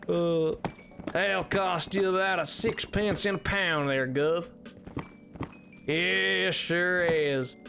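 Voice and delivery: slow Southern drawl on British slang; Britishisms in Southern accent. Pretend. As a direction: play British phrases through a Southern accent. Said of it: "colloquial Britishisms in, in, in a Southern accent".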